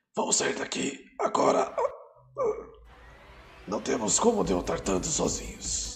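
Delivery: raspy, struggling to speak. Telling the story, the narrator voices a character pulling Hakkar away, scratchy, strained voice. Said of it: "com uma voz arranhada, como se não conseguisse falar direito".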